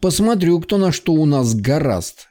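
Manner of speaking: commands between uneven breaths. Acted. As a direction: swallow words, short of breath. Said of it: "дышал неровно, глотая слова".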